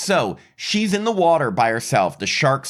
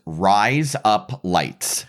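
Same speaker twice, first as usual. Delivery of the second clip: slow drawn-out Australian "rise up lights"; Australian accent; 4 semitones lower, much slower than usual. Shown as a demonstration. Teaching a friend the Australian joke, slow Australian accent. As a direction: say "rise up lights" slowly like an Aussie saying razor blades. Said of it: "That's razor blades in Australian accent".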